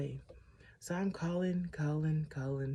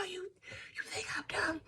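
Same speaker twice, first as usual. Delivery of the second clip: incredulous confrontation; 6 dB quieter than usual. Retold or imitated. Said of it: "And he was like".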